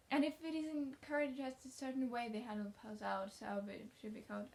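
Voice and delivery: eager, lightly voiced girl; chatty young girl. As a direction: talkative orphan girl, rushing on. Anne speaking in a read story.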